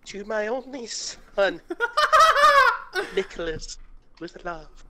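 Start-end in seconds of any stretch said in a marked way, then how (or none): 1.6-3.1 hammed-up laugh. Comic reading, letter scene.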